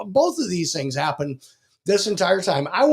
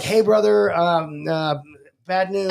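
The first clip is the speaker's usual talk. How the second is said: friend's voice; slower than usual. Retold or imitated. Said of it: "I can't even do his voice".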